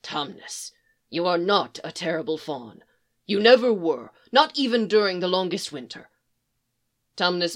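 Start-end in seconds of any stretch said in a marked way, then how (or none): 0.0-6.1 reassuring. Acted. Beaver reassures the fawn.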